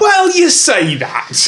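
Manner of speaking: high, slow knowing shout. Real, not acted. Ironic reply to a guess.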